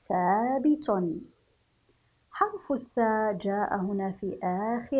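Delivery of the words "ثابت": long drawn-out ا in ثابت; ألف المد. Shown as a demonstration. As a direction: hold the aa after ث in ثابت. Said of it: "بألف المد". (مدّ الألف في ثابت ببطء)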